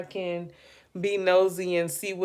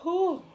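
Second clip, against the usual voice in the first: yawn; 11 semitones higher than usual. Real, not acted. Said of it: "I'm sneezing and yawning".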